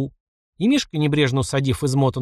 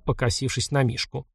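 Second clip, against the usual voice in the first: plain reading voice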